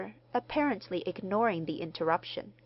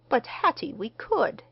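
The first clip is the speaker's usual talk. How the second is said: higher, louder, eager husband; mildly eager plea; eager interjection; 7 semitones higher, 5 dB louder than usual. A narrator's reading. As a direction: jump in keenly to persuade your wife. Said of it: "interposed her husband eagerly".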